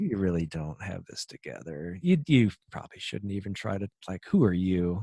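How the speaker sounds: a soft, mocking devil's taunt; the enemy's lie. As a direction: sneer it like the tempter whispering doubt. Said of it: "the enemy would, would love us to believe".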